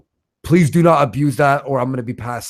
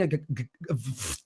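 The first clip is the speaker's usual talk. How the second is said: stuck on the G, pushing quietly; stuttering block; 13 dB quieter than usual. Real, not acted. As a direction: stammer repeatedly on a hard G.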